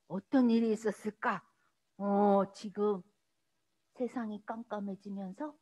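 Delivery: low, soft storytelling; hushed, slowing narration; hushed suspense. A narrator's reading. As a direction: drop low and quiet to build mystery. Builds suspense in Bible story.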